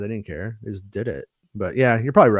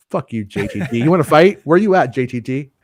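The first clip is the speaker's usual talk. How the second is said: mock-angry challenge, building louder; mock rant; 4 dB louder than usual. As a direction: pick a fight in jest. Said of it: "I won't go off on a rant".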